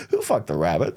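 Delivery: laughing while asking. Acted. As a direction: blurt it out through a laugh. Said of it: "You said it like".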